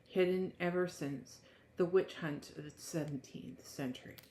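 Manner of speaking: measured book-blurb reading voice. Acted. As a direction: read it like back-cover copy. Reads the book blurb aloud.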